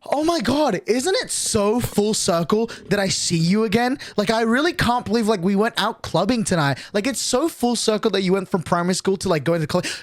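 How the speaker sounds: a lightly voiced gushing old classmate; gushing schoolmate. Imitating the classmate who won't stop gushing, mildly bubbly. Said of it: "goes and says".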